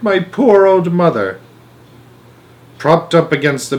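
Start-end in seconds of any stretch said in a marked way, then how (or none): 0.0-1.4 wailing mother. A narrator's reading. Mrs Bucket wailing.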